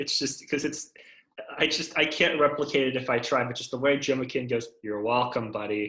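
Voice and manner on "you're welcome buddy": put-on flat, sarcastic voice. Try to replicate a tone heard off camera, in a flat, sarcastic Joe McKeon impression. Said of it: "Just like flat, sarcastic".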